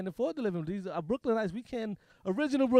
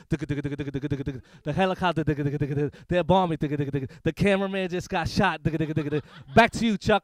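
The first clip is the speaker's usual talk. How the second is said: a frantic war correspondent, louder at the end; mock war reporter; 4 semitones lower, 6 dB louder, slower than usual. War reporter on CNN yelling back to the studio. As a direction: shout the sign-off over the bombs. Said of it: "they put on C N N war coverage".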